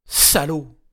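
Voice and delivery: loud curse; angry insult. A narrator's reading. Regina cursing her silent captors. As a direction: spit it out.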